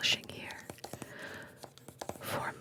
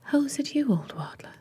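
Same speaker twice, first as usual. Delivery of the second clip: whispered British princess, starting high and falling; lightly British princess in a whisper; British accent; 6 semitones higher, 6 dB louder than usual. Acted. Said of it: "I don't know why they're British".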